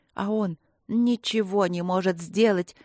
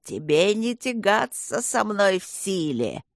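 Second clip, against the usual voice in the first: демонический голос зла; slower than usual. Acted.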